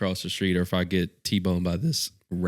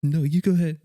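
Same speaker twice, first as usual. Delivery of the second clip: raised, firmer imitated insisting; insistent truck driver; 8 semitones higher than usual. Truck driver refusing to go first, mock insistence. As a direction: insist back in a higher voice. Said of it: "the truck's like".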